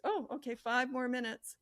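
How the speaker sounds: calm, slow, unbothered. Shown as a demonstration. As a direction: stay totally unbothered. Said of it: "I'm just calm as anything".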